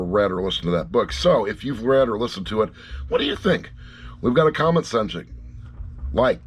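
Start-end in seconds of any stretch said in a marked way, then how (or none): 3.1-3.7 high, eager ask to viewers; eager question. Real, not acted. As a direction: pitch jumps high on the question. Asking viewers.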